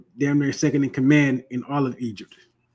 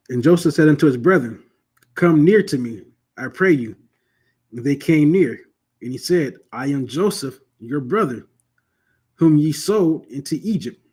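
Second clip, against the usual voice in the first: scripture reading. Acted. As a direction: read the King James verses with solemn weight. Reads scripture aloud.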